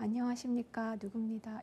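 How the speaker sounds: very quiet, tiny voice, barely audible. Describing speakers who are too quiet to hear: very quiet. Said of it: "이렇게 작게 얘기하는 경우".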